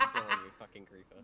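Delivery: high, loud outburst at a teammate; loud accusation. Real, not acted. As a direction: call out the culprit loudly. Blames teammate for killing civilians.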